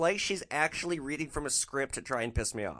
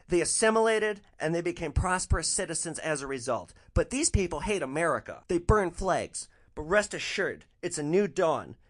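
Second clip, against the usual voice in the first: a bit higher caricature of the passenger; lightly voiced ranting lady; 5 semitones higher than usual. Passenger keeps ranting to driver: lifted mock voice. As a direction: keep up the mock rant, pitch lifted. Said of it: "But she continues".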